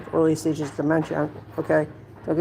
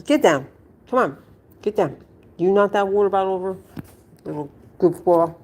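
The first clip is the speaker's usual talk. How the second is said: scolding the dog; 3 semitones higher than usual. Real, not acted. Scolding pet off camera.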